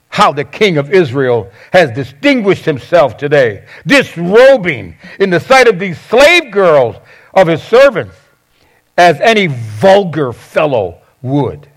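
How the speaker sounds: scripture read with mild mocking sarcasm; sarcastic. Wife greeting her husband David at the door, mildly sarcastic. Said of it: "catch the sarcasm".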